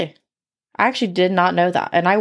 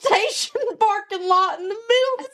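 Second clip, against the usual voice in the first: put-on Southern redneck accent; 8 semitones higher than usual. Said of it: "stop with the accent".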